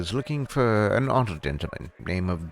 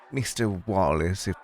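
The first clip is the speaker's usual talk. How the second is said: coolly dismissive hostess, rising in pitch; put-on proprietress voice, firm and haughty; stern bar owner; 4 semitones higher than usual. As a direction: show a guest the door with grand politeness. Voices Clarissa dismissing Wallace.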